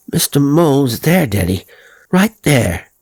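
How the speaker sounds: put-on boy showing his father the spot; excited boy. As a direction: point it out eagerly like a child.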